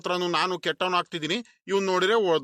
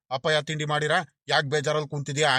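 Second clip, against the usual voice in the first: mocking echo; 2 semitones lower than usual. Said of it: "ಹಂಗೆ ಹಿಂಗೆ ಅಂತ ಕೇಳ್ಕೊಂಬಿಟ್ಟು".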